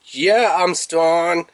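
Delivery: hesitant boast. Retold or imitated. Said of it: "He's like".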